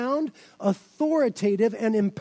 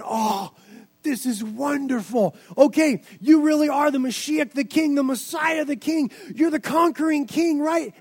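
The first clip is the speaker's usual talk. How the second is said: hopeful disciple; 3 semitones higher than usual. Pretend. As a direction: voice the disciple hoping for a conquering king. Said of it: "if you were the disciple".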